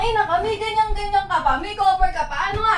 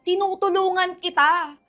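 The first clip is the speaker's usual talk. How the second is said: steady serious talking-to; stern sister lecture; 4 semitones lower than usual. Acted. Older sister giving the teen a long calm but stern lecture. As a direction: lecture her firmly but calmly.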